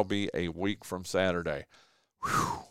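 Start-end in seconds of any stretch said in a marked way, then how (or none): 2.2-2.6 relieved whew. Real, not acted. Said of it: "Goodness gracious".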